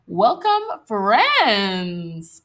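lightly sultry welcome, loud and high; a hint of a sultry host greeting; sultry narrator. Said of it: "can't get enough of my sultry voice".

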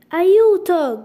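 loud, high call for help; crying for help. A narrator's reading. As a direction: shout it out like she is drowning. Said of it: "gridò".

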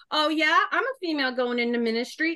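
lightly acted defiant comeback; sassy defiance. Female minister to conservative Southern men, sassy defiance. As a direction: throw it down as a sassy challenge.

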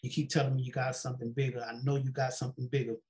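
low, quick, murmured retold prayer. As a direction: recount a private plea to God, fast and soft. Quiet repeated plea to God.

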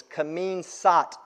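"Kamin Sat" said slowly and carefully; butchered Khmer phrase. Shown as a demonstration. Preacher trying Cambodian for the congregation, "Kamin Sat" slowly butchered. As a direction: sound out "Kamin Sat" slowly as a non-speaker. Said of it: "I'm gonna butcher this".

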